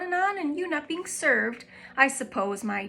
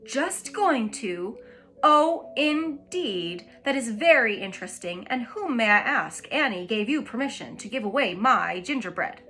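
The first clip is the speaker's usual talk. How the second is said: frighten the daughter with each word; soft fierce terrifying; 6 dB louder than usual. Acted. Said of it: "in a soft, fierce, terrifying voice".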